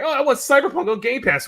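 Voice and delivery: high, loud mimicked excitement; mock eager request. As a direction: imitate an over-eager gamer.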